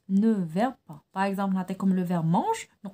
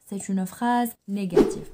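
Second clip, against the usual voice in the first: slow dictation; much slower than usual. Shown as a demonstration. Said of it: "teacher dictating rule".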